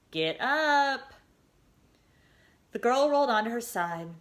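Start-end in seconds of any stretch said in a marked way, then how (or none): 0.1-1.1 urging. A narrator's reading. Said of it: "urged the voice".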